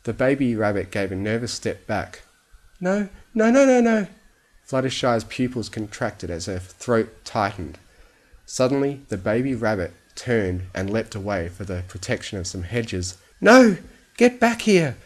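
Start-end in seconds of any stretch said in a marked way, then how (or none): 2.8-4.1 rising high panicked noes; high, loud, frantic protest. A narrator's reading. Fluttershy panics as rabbit retreats. 13.4-15.0 high, loud desperate shout; shrieked command, pitched way up. A narrator's reading. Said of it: "she shouted".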